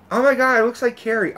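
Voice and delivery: high-pitched mocking quote; imitating a moviegoer. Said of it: "And when she said".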